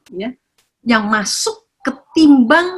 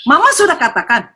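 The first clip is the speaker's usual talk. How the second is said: mock stern mother; 4 semitones higher than usual. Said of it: "ngomongnya udah keras gitu".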